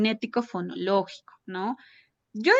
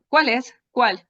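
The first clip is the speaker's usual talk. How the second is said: put-on asking the child; 3 semitones higher, 5 dB louder than usual. Shown as a demonstration. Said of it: "Entonces le digo".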